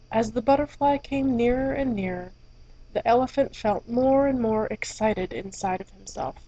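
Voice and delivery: gentle storybook reading voice; story narration. A narrator's reading. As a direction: read it like a bedtime story. Reads fairy tale aloud.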